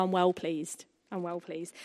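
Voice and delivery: a light South London Cockney lilt on "I'm well pleased"; lightly voiced Cockney accent, dropped a little in pitch; Cockney twang. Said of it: "So maybe God has a Cockney twang".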